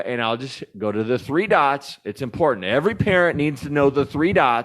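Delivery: hitting the table while talking; banging the desk. Real, not acted. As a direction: knock on the desk as you speak. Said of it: "Quit hitting the table".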